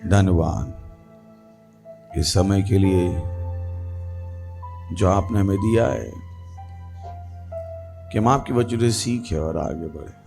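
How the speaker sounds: low, measured prayer voice; opening prayer. Real, not acted. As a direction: pray steadily, pitched under normal talk.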